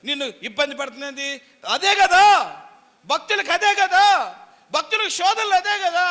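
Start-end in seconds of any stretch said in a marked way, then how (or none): 1.7-6.1 loud, high preaching cry; fiery preaching. Acted. Preacher loudly declares these are the believers' trials. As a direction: preach it hard at full force.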